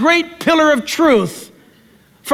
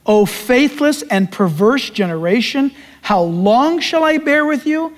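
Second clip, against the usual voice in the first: Jesus lament. Acted. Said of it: "Then Jesus answered and said".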